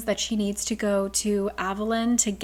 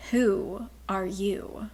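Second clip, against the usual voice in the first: slow hissed question; much slower than usual. Acted. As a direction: hiss the question slowly. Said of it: "the Ocean Queen hists".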